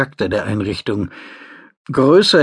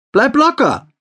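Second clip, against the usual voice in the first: higher, lighter woman's voice; female assistant voice; 13 semitones higher, 4 dB louder than usual. A narrator's reading. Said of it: "drang die Stimme seiner Assistentin".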